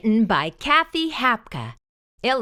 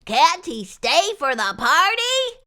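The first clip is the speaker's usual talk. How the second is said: put-on pleading boy; 7 semitones higher than usual. A narrator's reading. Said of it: "a boy asked the nurse".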